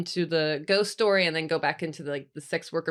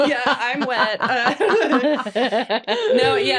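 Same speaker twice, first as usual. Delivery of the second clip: talking through giggles, higher and louder; laughing through words; 6 semitones higher, 8 dB louder, much slower than usual. Real, not acted. To her cohosts after a cheeky joke, laughing through the words. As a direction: giggle the words out, barely holding it together.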